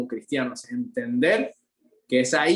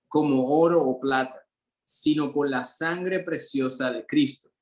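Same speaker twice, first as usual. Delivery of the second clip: scripture reading. Acted. Reads scripture aloud in lesson.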